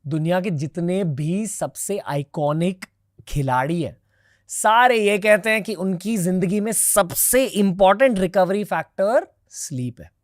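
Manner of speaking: punchy, deliberate host intro with pauses between phrases; podcast intro read. Acted. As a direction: present the episode, punching key names and phrases. Scripted episode introduction to viewers.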